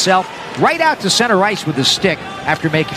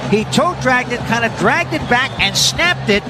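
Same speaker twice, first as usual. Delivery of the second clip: excited recap; 6 semitones higher than usual. Real, not acted. Recapping the goal just scored.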